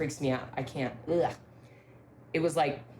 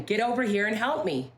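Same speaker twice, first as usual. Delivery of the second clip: retold call; 6 semitones higher than usual. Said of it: "he heard my voice again".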